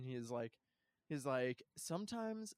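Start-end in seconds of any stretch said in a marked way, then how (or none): 1.8-2.5 mock grave delivery. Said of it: "the way he delivers a line".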